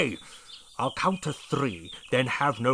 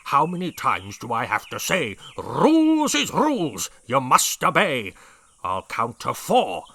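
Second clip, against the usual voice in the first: loud, slow blustering rhyme; shouting; 6 dB louder, slower than usual. A narrator's reading. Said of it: "shouted at the termites".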